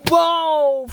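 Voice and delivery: high drawn-out "whoa" sliding down; mock startled whoa. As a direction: mimic a surprised cry, lightly. Shoe flies off during the ball game.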